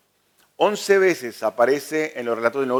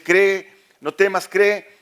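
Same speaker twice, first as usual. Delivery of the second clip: slow, higher and louder, pressing each word; emphatic urging; 4 semitones higher, 3 dB louder, much slower than usual. Acted. Jesus urging the frightened father, slow and louder. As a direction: plead with him to hold on and believe. Jesus urges Jairo to believe.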